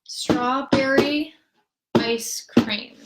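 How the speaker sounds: strawberry slow, ice cream whispered; slow then whisper the end; slow rhythmic demo. Shown as a demonstration. Teacher playing the rhythm by voice. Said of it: "let's listen to that".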